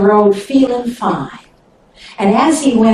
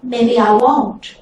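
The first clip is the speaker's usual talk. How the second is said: pitiful; slower than usual. Acted. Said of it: "sort of pitiful-like".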